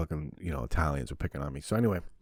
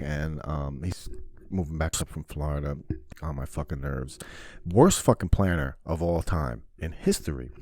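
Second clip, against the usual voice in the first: ordinary talk, nothing marked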